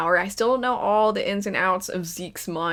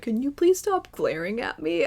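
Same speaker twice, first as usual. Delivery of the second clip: mocking Zeke; 3 semitones higher, 3 dB quieter than usual. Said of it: "stupid Zeke being like".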